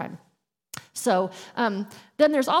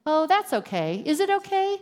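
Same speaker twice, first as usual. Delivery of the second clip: mock breezy brush-off; 6 semitones higher than usual. Shown as a demonstration. Mocking a dismissive apology reply.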